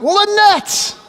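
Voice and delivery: high, bright call across the hall; cheerful greeting. Retold or imitated. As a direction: call her name out warmly and loud. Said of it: "I'm like".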